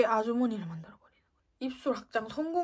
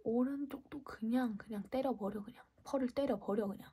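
whisper; 7 dB quieter than usual. Real, not acted. Whispered asides during makeup.

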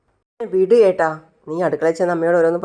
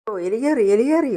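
higher, frantic rat alarm; panicked cry; 6 semitones higher than usual. Acted. Roommate waking in fright, shrieking about a rat, much higher. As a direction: yelp it like a rat just ran over you.

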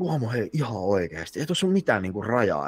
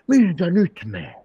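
put-on higher, slow slurred drunk voice; imitating drunk woman; 8 semitones higher, 7 dB louder than usual. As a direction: drag it out like a tipsy stranger. Drunk woman calls after him.

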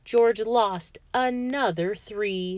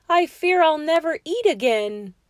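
raised, louder storybook lament; crying out; 6 semitones higher, 6 dB louder than usual. A narrator's reading. George laments to Martha over lost teeth, crying out. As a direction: cry out in acted dismay. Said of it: "George cried out".

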